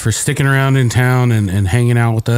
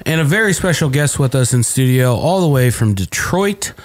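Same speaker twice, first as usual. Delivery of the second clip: upbeat announcer welcome; podcast host intro. Acted. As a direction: open the show like a radio host.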